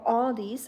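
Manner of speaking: Aldi's with an "aw" start and added s; American-style Aldi's, "all-deez"; American pronunciation. Shown as a demonstration. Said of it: "as Americans would say".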